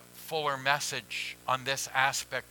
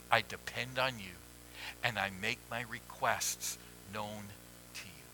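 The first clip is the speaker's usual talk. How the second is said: soft, low, humble prayer; quiet prayer; 4 semitones lower, 9 dB quieter than usual. Shown as a demonstration. Pastor models a humble prayer to the Father, softly. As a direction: pray it softly, fading away.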